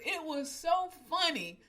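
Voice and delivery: high, slow words through real laughter; barely holding in the giggles; laughing. Real, not acted. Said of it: "I was crying 'cause I was laughing".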